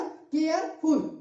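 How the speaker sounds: केयरफुल in two parts, केयर then फुल; syllable break. Shown as a demonstration. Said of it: "दो बार में आप कर रहे हैं ना". (केयरफुल को दो हिस्सों में, केयर और फुल)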